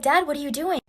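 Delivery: feigned innocence. Retold or imitated. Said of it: "Pretending like I don't know what's going on".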